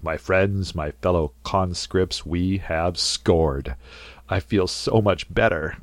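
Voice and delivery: slow, mock-formal speech to the troops; a hint of a pompous leader, drawn out; official sounding voice. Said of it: "he puts on this official sounding voice".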